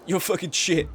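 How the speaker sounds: mocking jeer. Streamer imitating chat's abuse, slow loud mockery. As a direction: draw out the jeer. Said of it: "It's always".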